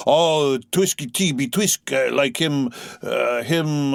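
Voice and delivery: halting, groping speech; faltering for a word. Acted. Harpooneer searching for a word, faltering. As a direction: stumble hunting for the word. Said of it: "faltering hard for a word".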